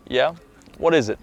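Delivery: calm, composed answer to your name; unhurried reply. Shown as a demonstration. Confident man answering someone who yelled his name, unhurried. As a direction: respond slowly and unbothered, in full control. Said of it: "You're gonna slowly look around".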